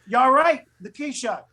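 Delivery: high, over-the-top New York cop; New York stereotype. Retold or imitated. Actor proving he is from New York, exaggerated New York accent. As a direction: ham up every New York cliché. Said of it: "every New York stereotype I could come up with".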